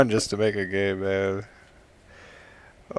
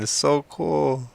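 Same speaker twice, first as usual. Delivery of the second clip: ordinary talk, nothing marked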